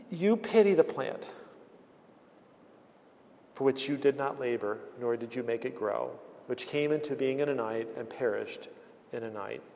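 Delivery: gentle, softening as it goes; calm and tender. Retold or imitated. The Lord answering angry Jonah, calm and tender. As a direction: speak as a patient loving father. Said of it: "The Lord stays so calm, so loving, so tender".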